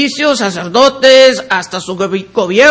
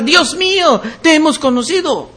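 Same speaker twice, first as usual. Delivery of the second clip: a little higher, imitating a cry to God; mild mock outcry; 3 semitones higher than usual. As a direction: lightly voice the people crying out. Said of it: "gritar así". (clamor fingido y suave, un poco más agudo)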